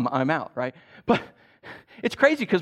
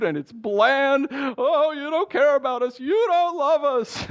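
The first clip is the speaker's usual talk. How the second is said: whiny grumbling; 4 semitones higher, 4 dB louder than usual. Retold or imitated. Preacher mimics Israelites complaining to God, building whine. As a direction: whinge at God like a sulky child. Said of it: "the Israelites were grumbling against God".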